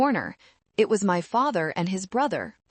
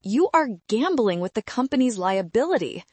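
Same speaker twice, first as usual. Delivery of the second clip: barely contained rage; 3 semitones higher, 4 dB louder than usual. Acted. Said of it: "vibrating with rage".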